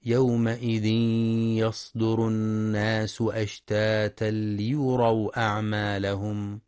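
slow, drawn-out tajweed chant; Quran recitation. Shown as a demonstration. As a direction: recite the verse slowly, stretching the vowels. (تلاوة مجودة بطيئة)

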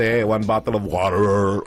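laughing through "Ate, one bottle of water."; a cashier laughing as she mocks his "Ate, one bottle of water."; laughing mockery. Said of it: "she's like".

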